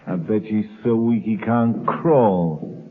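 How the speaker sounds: slow, chuckling scorn; mocking laugh. Thug mocks the starving prisoner, slow chuckling scorn. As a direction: laugh at the helpless man, slowly.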